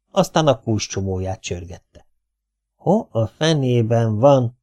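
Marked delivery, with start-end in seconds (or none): 2.8-4.6 slow, grumbling mutter. Acted. Caretaker grumbles in the corridor searching for keys. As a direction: grumble to yourself. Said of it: "morgolódott".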